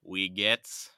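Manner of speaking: loud Wie geht's? in an American accent; German spoken with an American accent. Shown as a demonstration. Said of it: "in my full American accent".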